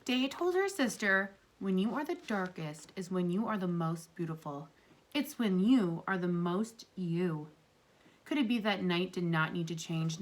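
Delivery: gentle read-aloud to a class; storybook reading. Acted. Teacher reading a story aloud to her class, gently. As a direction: read it like a picture book for kids. Reads picture book to class.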